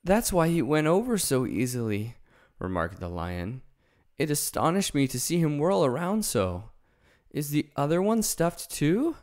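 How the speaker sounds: the lion wondering about the Scarecrow; lion's voice. Acted. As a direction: marvel at it like a big cat. Lion marvels.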